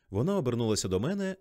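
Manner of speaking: ordinary delivery, nothing marked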